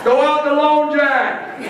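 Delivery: high, slow, laughing take on the coach; Bud Dog impression. Speaker retries his coach impression for the crowd, high and slow. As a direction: stretch it out high through a laugh. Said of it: "That was not a very good Bud Dog".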